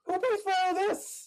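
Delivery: high, drawn-out protest; mock outrage. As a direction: squeal it out slowly in protest. Mock outrage at having to pay.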